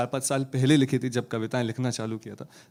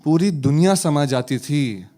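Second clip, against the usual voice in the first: poem recitation; 5 dB louder, slower than usual. Acted.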